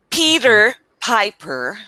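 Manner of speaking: "Peter Piper" slowly, with puffed p's and American r's; "Peter Piper" drawn out for a learner to copy; pronunciation model. Shown as a demonstration. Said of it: "Can you say that?".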